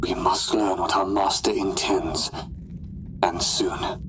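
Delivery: whispered determination; hushed resolve. Acted. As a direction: murmur it under your breath. Resolve kept private.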